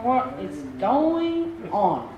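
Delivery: lightly voiced indignant brother, drawn out slowly; a slow, mildly put-out grumble; grumbling older brother. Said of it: "sound like the older brother outside".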